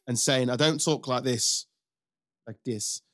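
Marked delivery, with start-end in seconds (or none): 0.5-1.7 slow, rough attempt at Dublin; Dublin accent. Referee owning up to his hidden accent, attempted Dublin. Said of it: "speaking in his Dublin accent". 2.5-3.0 soft, tentative go at Dublin; Dublin accent. Retold or imitated. Host fumbling the referee's voice, hesitant Dublin accent. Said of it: "speaking in his Dublin accent".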